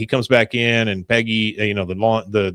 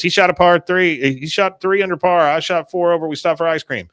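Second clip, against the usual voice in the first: raised, loud rote delivery; robotic recitation; 6 semitones higher, 4 dB louder than usual. Retold or imitated. Bobby telling the cop his story, robotically. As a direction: recite it like a rehearsed alibi, pitched up. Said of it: "he's just robotically telling this story".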